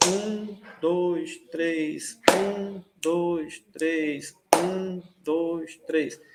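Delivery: even, spaced count in threes, "um" slightly lifted over "dois" and "três"; counted ternary pulse. Shown as a demonstration. Teacher counting ternary measure for students, steady accented pulse. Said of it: "acentos que se repetem a cada três pulsos".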